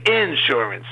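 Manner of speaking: insurance with stress on the first syllable, IN-surance; Southern-style INsurance, front-stressed; Southern pronunciation. Shown as a demonstration. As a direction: hit the "in" of insurance. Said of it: "love in the South to say".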